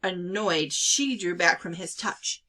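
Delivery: ordinary delivery, nothing marked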